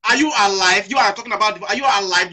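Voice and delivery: loud, indignant challenge; angry outburst. Real, not acted. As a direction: shout the question at him in disbelief. Heated rant at fellow Igbo.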